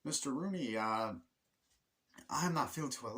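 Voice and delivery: a hint of a sick-day caller; put-on caller voice. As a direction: play a student calling in sick. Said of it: "That was me doing the voice".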